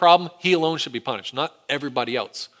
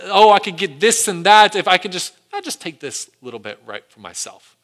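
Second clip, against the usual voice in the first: Achan's greedy thoughts; 3 semitones higher, 5 dB louder than usual. Retold or imitated. Achan eyeing the plunder, scheming to himself. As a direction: talk yourself into taking a little. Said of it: "Achan is sitting there thinking".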